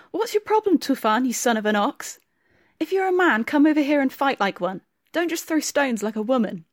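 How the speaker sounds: a furious man daring his enemy to come closer; angry challenge. Acted. Timur taunting Tufan across the village square, angry shouting. Blacksmith challenges rival in brawl.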